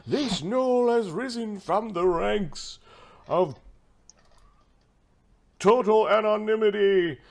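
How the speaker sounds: high, stretched-out announcer patter; arena announcer. Acted. Game master inventing a gladiator's introduction, arena announcer voice. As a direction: proclaim it grandly, stalling between phrases.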